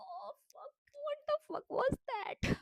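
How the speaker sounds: high, slow, drawn-out "what the fuck"; cringing at her own memory, drawn out high; stretched disbelief. Real, not acted. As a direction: stretch every word in disbelief. Recalling her embarrassing crying.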